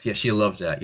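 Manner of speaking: lightly sarcastic, mock agreement. Real, not acted. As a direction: say it with understated sarcasm. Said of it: "that sounded like sarcasm".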